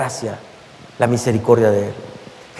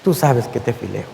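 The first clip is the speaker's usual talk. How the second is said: mild tearful plea; 8 semitones lower, 6 dB quieter than usual. Acted. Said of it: "Pedro comienza a llorar".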